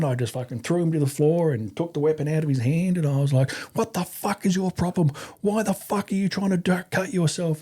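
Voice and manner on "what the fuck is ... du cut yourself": high-pitched angry demand without full volume; mock furious interrogation, pitch raised; retold unleashing. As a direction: imitate laying into a recruit. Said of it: "I was just unleashing".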